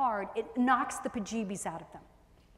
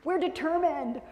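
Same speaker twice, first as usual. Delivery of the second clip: mock composure; 3 semitones higher, slower than usual. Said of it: "collect yourself again and say".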